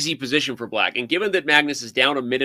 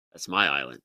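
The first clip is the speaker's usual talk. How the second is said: low, softer attempt at Irish; failed Irish accent; 13 semitones lower, 7 dB quieter than usual. Quoting a line from Braveheart, poor Irish accent. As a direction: badly imitate an Irishman, pitched well down. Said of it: "can't even do the Irish accent".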